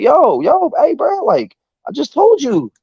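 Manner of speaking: high-pitched, exasperated callout; acting out an indignant interruption; retold confrontation.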